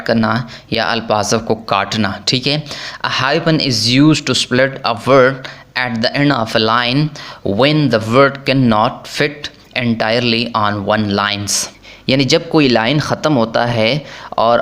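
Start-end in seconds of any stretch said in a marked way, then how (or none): 3.1-11.7 reads the rule out word by word, very slowly; slow rule reading. Shown as a demonstration. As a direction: dictate the textbook rule slowly and evenly. Reads the English rule aloud.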